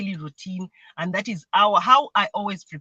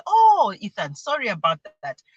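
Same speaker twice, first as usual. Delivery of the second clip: acted apology; 4 dB louder than usual. Mother apologising to son.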